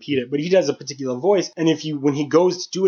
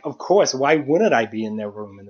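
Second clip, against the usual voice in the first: lower, puzzled indignation, as if it's obvious; mock-offended, dropping lower at the end; indignant, incredulous tone; 4 semitones lower than usual. Shown as a demonstration. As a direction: play it like he's the wronged one. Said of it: "just changing that tone of voice".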